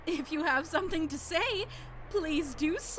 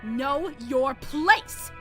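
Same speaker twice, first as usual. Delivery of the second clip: haughty command; 2 semitones lower, 6 dB louder, much slower than usual. Acted. Ava berating Natsuhi.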